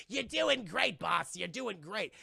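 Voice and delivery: a hint of a flattering minion; lightly voiced sidekick. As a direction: cheer on the boss as a mock henchman. Voices Rodan cheering his boss.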